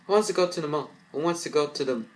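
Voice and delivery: rally everyone to the mall; excited invitation. Acted. Sister eagerly asking the family to go shopping.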